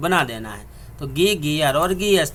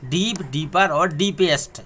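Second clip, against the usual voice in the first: slow demo; slower than usual. Shown as a demonstration. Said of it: "EST लगा करके superlative बना देंगे".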